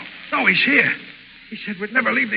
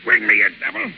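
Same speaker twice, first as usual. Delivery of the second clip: wounded gasp; 11 semitones lower, 4 dB louder than usual. Acted. Ward is shot in the shoulder.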